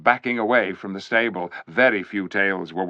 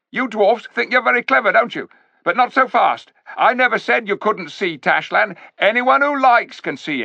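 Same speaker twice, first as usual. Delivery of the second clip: high, loud sneering ape voice; sly ape; 11 semitones higher, 6 dB louder than usual. A narrator's reading. Ape sneering at the clever dwarfs, high and loud. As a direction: talk down to the dwarfs like a smug ape.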